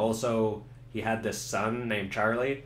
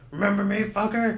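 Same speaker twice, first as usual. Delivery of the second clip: higher, louder snarl of revenge; menacing taunt; 8 semitones higher, 4 dB louder than usual. Acted. Murphy taunting the man he hunted down, angry. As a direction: spit it at the old enemy. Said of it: "And Murphy's like".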